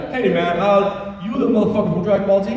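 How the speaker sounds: imitating a huge muscly guy from a bar; big bar guy. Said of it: "and he's like".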